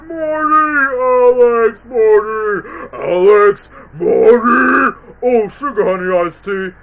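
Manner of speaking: frantic calling names. Retold or imitated. Retelling the movie moment, frantic mock calling. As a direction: call out each name in a panic. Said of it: "comedy moments where it goes".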